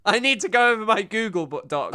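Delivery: mocking imitation. Mimics the clip just played.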